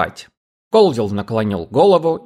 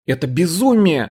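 higher, desperate outcry; shouting; 6 semitones higher than usual. A narrator's reading. Cherry cries out at the police, protesting. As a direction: cry out that it's madness. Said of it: "закричала Черри".

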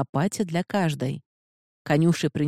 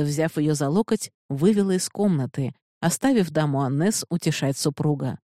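plain reading voice

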